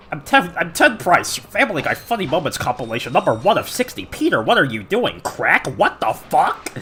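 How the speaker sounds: mock-boss voice with bobbing intonation; Ted Price. Annoyed player playing the studio boss, lightly put-on voice. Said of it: "Just pull out the Ted Price voice".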